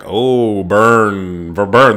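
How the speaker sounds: teasing "oh burn" cheer, lightly voiced; a hint of schoolyard taunting; mock taunt. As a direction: egg on the fight like a giddy viewer. Own reaction to argument, I was like.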